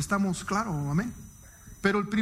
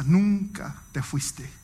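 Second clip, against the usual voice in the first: slow, gentle, lower "nunca te fuiste"; 4 semitones lower, much slower than usual. Retold or imitated. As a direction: say it slowly and tenderly, like a welcome home. Pastor's tender words, quoted. (cita tierna y lenta del pastor)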